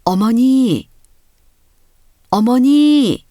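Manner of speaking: put-on boy calling out for his mother. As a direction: call for mother into the empty house. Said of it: "나는 어머니를 불러보았습니다".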